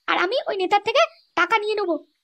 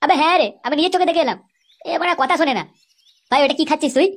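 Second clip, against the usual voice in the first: a friend's voice set a little lower, gossiping; a hint of a deeper voice for the scheming friend; lightly deepened sly friend; 8 semitones lower than usual. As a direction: tell the tale low and knowingly. Held low character voice.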